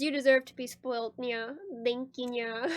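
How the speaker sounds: talking with a wet mouth; words round too much spit. Real, not acted. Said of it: "Got too much spit in my mouth".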